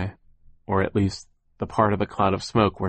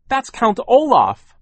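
high, loud, drawn-out warning; slow, high exclamation of horror; alarmed cry; 8 dB louder, slower than usual. A narrator's reading. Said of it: "Violet cried".

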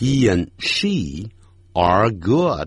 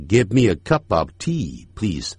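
fast, linked; 2 semitones lower than usual. Shown as a demonstration. Teacher showing the fast linked version. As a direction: Give me a cup of tea please run together quickly. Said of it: "念快的时候".

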